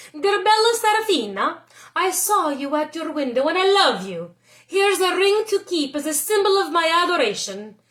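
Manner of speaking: a lovestruck suitor pouring his heart out; lightly voiced lover; love letter.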